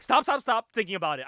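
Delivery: hammed-up alarm; mock frantic plea. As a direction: play at desperately cutting someone off. Acting out Gremlin begging the bomb.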